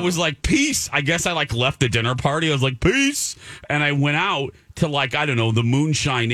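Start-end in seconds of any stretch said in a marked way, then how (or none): 0.4-0.9 high, airy "Peace"; chirpy sign-off quip; mock breezy goodbye. Mock farewell at party. 2.8-3.4 high, airy "Peace"; chirpy sign-off quip; mock breezy goodbye. Repeats mock farewell.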